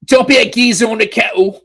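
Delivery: American doing a Scouse impression of a mate; Liverpool accent. Host imitating a Liverpool mate in a mock Liverpool accent. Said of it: "my Liverpudlian accent is not very good".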